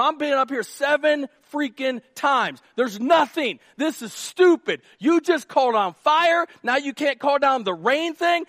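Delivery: hammed-up servant yelling at the prophet; angry rant. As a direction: rail at Elijah for failing. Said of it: "He going".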